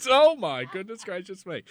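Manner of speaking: lightly voiced, prim and shocked; a hint of a shocked genteel lady; scandalised lady. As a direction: gasp it like a fussy old lady. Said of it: "I do declare".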